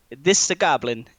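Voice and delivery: a hint of an urgent companion; Walder's voice. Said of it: "Walder says".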